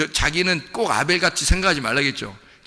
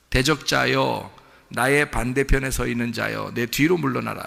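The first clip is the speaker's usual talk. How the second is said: solemn rebuke; 2 semitones lower than usual. Acted. Voices Jesus rebuking, slow.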